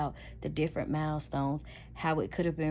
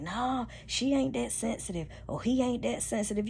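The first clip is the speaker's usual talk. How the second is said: higher, breezy brush-off; dismissive partner; 6 semitones higher than usual. Retold or imitated. Partner shrugging off hurt feelings, higher and breezy. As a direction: wave it off like it's nothing. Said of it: "You be like".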